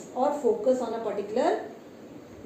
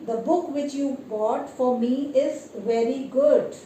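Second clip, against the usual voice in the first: slow example sentence. Shown as a demonstration. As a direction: read the example slowly and clearly. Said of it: "you see how you are using emphasizing adjectives".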